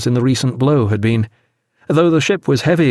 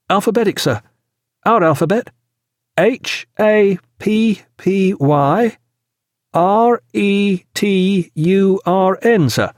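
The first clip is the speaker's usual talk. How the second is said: put-on high boyish voice, letters slowly spaced; young signal reader; 8 semitones higher, slower than usual. A narrator's reading. Young midshipman spells out the signal.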